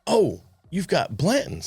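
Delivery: a hint of a naive bourbon newbie. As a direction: play the wide-eyed rookie showing off. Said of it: "That's exactly how I said it".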